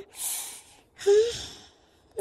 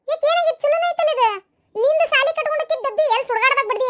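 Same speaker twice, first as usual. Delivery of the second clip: laughing; 6 semitones higher, 4 dB louder than usual. Acted. Mother laughs at daughter's complaint.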